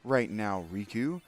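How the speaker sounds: high, loud angry snap at a friend; angry outburst. Retold or imitated. Streamer voicing Trevor telling Riku off, high angry shout. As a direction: let the anger spike on angry, then settle. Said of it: "can be like".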